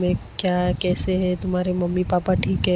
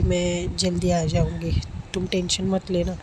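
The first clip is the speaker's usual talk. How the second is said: lovingly. Acted. Girl tenderly reassuring her sick friend as she leaves. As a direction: gently promise to come back soon. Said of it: "बहुत प्यार से बोलती है".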